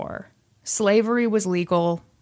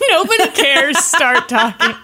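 laughing; 6 semitones higher, 4 dB louder than usual. Real, not acted. Repeating friend laughing.

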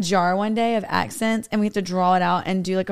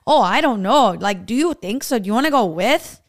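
put-on Pennsylvania cousin accent; 4 dB louder than usual. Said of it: "And they're like".

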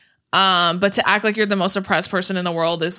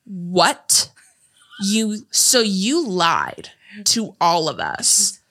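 slow, drawn-out mock accusing; imitated accusation; much slower than usual. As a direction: quote the movie girl, dragging out each phrase. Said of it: "then she's like".

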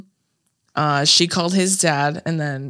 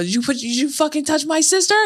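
retold screaming; 9 semitones higher than usual. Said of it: "just started screaming".

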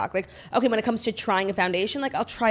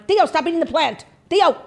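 high sing-song call to a dog; 9 semitones higher, 4 dB louder than usual. Real, not acted. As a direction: call him over, way up high. Calling the dog off the plant.

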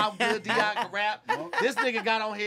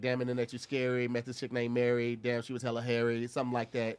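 rhyme demo; 10 semitones lower, 5 dB quieter, faster than usual. Shown as a demonstration. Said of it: "so just as a refresher".

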